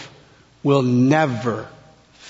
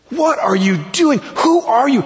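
indignant, high-pitched challenge; yelled rebuke; 8 semitones higher than usual. Retold or imitated. Second thief yells at the other thief, indignant. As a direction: confront him, pitch climbing on the second question. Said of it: "he yells at that thief".

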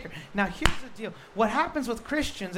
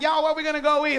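put-on Southern accent; 4 semitones higher, 5 dB louder, faster than usual. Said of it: "you start talking like them".

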